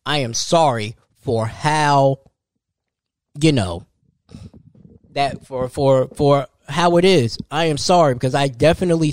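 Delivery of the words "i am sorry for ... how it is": slow, heartfelt apology; mean every word to the parents; sincere apology. Real, not acted. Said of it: "To all the parents out there".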